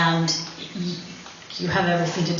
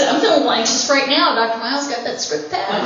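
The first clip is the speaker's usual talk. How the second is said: quick, higher, faux-nervous plea; mock anxious patient; 5 semitones higher, faster than usual. Telling the anesthesiologist she is anxious, mock-nervous and quick. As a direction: fake the nerves to get the drug. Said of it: "how to tell the anesthesiologist".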